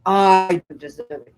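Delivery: slow, drawn-out outrage; hammed-up indignation, stretching the key words; mock indignant anger. Acting out anger at Ian for the students, mock indignant.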